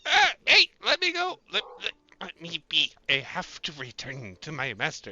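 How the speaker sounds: high, squeaky panicked robot. Acted. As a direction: squirm and protest in a small voice. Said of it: "robot held up by the neck".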